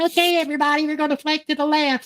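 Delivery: put-on high, squeaky little-kid voice playing a gruff role. Imitating a kid teammate who acted like the platoon sergeant, in a squeaky voice. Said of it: "with his little squeaky voice".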